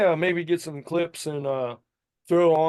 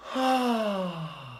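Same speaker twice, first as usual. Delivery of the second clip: scream demo; 3 semitones higher than usual. Shown as a demonstration. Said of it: "Now try it".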